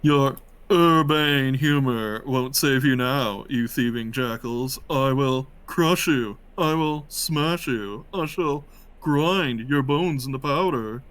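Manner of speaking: slow, menacing villain speech; lightly voiced evil emperor, slow; intimidating threat. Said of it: "I'm very intimidating, you see".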